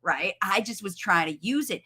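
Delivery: lightly voiced toddler; puzzled toddler. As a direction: play the baffled little boy. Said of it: "he's gonna be like".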